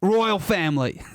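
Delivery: slow British attempt that drifts Australian; botched British accent. Shown as a demonstration. Panelist practicing for a dare, British accent sounding Australian. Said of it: "That's Australian".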